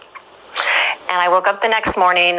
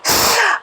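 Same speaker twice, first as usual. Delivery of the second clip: high laugh. Real, not acted. Recalling the counselor's answer, a high delighted laugh.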